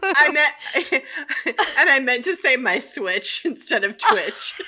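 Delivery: high, laughing through words. Real, not acted. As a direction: barely talk for laughing. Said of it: "I'm laughing too hard".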